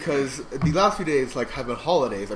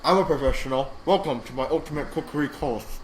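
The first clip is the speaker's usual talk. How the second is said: lightly voiced celebrity chef, mouth full; a hint of Gordon Ramsay through a mouthful. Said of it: "you're talking like Gordon Ramsay with his mouth full".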